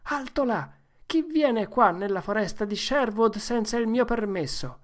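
play-acted halt challenge; mock challenge shout. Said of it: "Tom gridò". (ragazzo che intima l'alt per gioco, voce alta)

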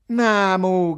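high, loud rallying call; shouting. A narrator's reading. Ugo calls to the musicians to get moving, shouting. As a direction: call out to hurry them along. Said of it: "gridava Ugo ai suonatori".

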